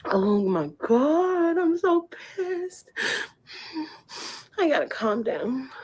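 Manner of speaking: fake crying. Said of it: "that fake crying".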